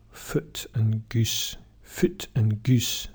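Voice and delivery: Scottish: "foot" and "goose" with the same vowel, slowly; Scottish accent. Shown as a demonstration. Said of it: "in Scotland".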